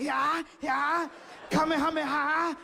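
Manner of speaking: high-pitched, strained battle yells; anime attack cries. Retold or imitated. Desperate fighter copying TV moves, high mock anime attack cries. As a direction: imitate a cartoon fighter launching a blast. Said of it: "doing stuff I see on T V".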